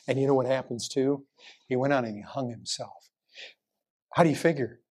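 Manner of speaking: usual speaking voice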